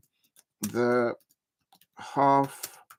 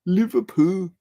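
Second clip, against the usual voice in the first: higher, lightly attempted Liverpool accent; botched Scouse accent; 5 semitones higher, slower than usual. Shown as a demonstration. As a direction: have another clumsy go at Scouse. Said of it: "I probably just butchered the Liverpool accent".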